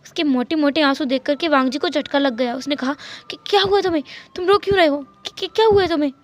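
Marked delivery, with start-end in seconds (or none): 3.5-6.1 worried, pitched up; startled concern; alarmed. Acted. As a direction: ask in sudden alarm. Worried husband sees crying.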